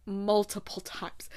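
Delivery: breathy whispered repeat; hushed, slow whispered echo. Real, not acted. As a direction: whisper it for effect.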